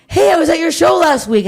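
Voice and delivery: high, chirpy fan voice; bright recognition from a stranger; cheerful fan. Retold or imitated. Imitating a fan at TSA recognizing her, high and cheerful. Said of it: "She's like".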